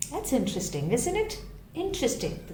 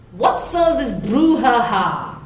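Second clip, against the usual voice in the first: louder, booming lion roar; thundering Lion; 7 dB louder than usual. Acted. Lion bursting out of his den, thundering at the crowd. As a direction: make the den shake with it. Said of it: "he thundered".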